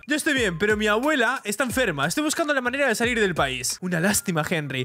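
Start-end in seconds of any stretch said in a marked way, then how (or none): 0.1-3.8 a light try at a Latin American accent; imitated Latin American accent. Shown as a demonstration. Henry telling Jorge about his sick grandma, in a light Latin American accent. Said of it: "El acento imitante".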